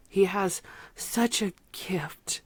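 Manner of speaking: slow, breathless whisper, overcome; hushed and moved, letting it slip out; emotional whisper. Real, not acted. Reviewer overcome by a singer's lyrics, whispering slowly. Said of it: "I'm getting emotional".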